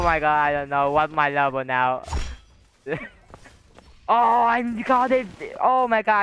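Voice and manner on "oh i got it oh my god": excited shout. Real, not acted. Surprised success in game.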